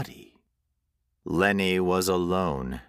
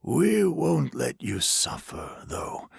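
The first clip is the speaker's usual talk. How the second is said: gentle stranger voice; 8 semitones higher than usual. A narrator's reading. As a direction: promise it calmly. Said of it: "the stranger said".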